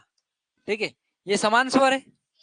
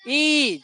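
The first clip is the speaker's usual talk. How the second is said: ई pushed out high and firm; ई with force; 4 semitones higher than usual. Shown as a demonstration. Teacher showing pupils a forceful, higher ई. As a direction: lean hard on the vowel ई. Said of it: "थोड़ा सा जोर दे के बोलेंगे".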